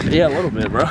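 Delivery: a bit winded; talking while catching breath. Real, not acted. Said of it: "mad out of breath right now".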